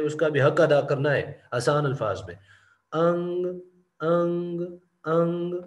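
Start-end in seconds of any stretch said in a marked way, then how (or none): 2.9-5.6 अंग said higher, with the ग voiced at the end; final g sounded. Shown as a demonstration. Teacher insists on the ग in अंग. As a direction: give the ग in अंग its due. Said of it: "जी है ग, उसको भी आपने यानी प्रोनाउंस करना है".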